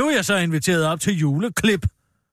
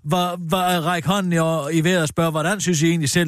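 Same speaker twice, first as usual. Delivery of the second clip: mock politician. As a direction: parody him wanting to start a debate. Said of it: "hele Henrik Sasses retorik".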